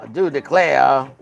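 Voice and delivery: lightly imitated southern drawl; mock southern exclamation. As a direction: say it with a Southern lilt. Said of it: "a nice southern drawl".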